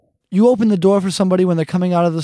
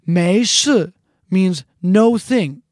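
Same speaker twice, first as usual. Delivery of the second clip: slow gloss; much slower than usual. Shown as a demonstration. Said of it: "teaching gloss".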